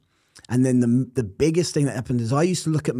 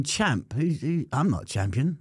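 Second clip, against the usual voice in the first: puzzled disbelief; 3 semitones higher, slower than usual. Retold or imitated. Looking around at being called champ, puzzled disbelief. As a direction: question it, mildly incredulous. Acts out his puzzlement at the nickname.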